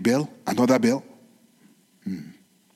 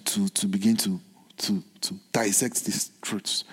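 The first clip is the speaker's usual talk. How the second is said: whisper; 9 semitones lower, 10 dB quieter than usual. Real, not acted. Preacher drops to aside.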